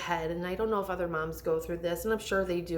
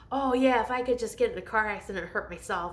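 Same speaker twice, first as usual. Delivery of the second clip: quoting Kristen Bell; 4 semitones higher, faster than usual. Retold or imitated. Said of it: "Kristen Bell said".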